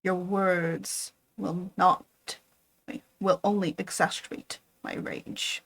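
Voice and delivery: loud, firm refusal; defiant anger. Acted. Frankenstein defies his creature, loud and angry. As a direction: throw the commands at him.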